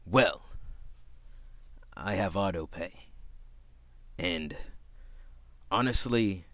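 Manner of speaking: soft, low customer with long pauses; oddly proper customer. Retold or imitated. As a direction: imitate him, halting and precise, phrase by phrase. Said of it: "couldn't be no football coach with that voice".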